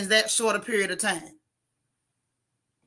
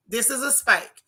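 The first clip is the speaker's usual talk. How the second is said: raspy voice. Real, not acted. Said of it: "with my little raspy voice".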